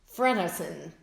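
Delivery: Frenderson stretched slowly; slow model question. Shown as a demonstration. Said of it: "Então".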